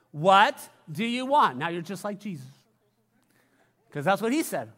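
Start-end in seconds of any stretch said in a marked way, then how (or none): 0.1-1.6 loud repeat-after-me. Shown as a demonstration. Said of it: "Can you repeat that with me?".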